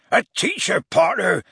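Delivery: high, outraged telling-off; roaring. A narrator's reading. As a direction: rebuke them with rising indignation. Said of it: "he roared at Harry".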